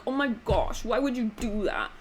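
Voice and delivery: lightly put-on dopey guy voice; mock a silly dubbed voiceover; a hint of dumb, childish dude; badly voiced male character. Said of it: "he literally just sounds like this".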